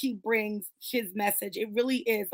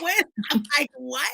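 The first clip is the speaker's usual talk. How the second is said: incredulous retort; 3 semitones higher than usual. Retold or imitated. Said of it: "I'm just like".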